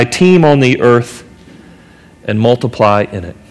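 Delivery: measured, solemn reading of Scripture. Acted. Pastor reading Genesis to the congregation, solemn scripture reading.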